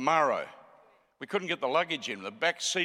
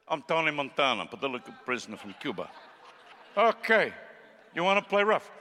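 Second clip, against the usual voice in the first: Tony Montana. Acted. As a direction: do a lightly voiced Cuban gangster. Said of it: "We were doing gangsters and everything".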